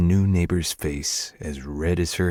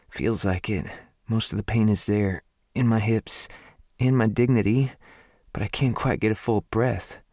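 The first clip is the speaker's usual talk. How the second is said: higher, joking through discomfort; lightly voiced southern woman, wry; 4 semitones higher than usual. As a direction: make light of the pain. Her wry pained answer.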